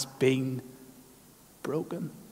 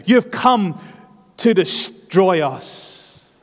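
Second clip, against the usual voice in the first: slow, higher demon's fearful accusation; 4 semitones higher, much slower than usual. Acted. Demon accuses Jesus of coming to destroy, slow and raised. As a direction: let the demon dread it, drawn out. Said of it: "he knew his missional identity".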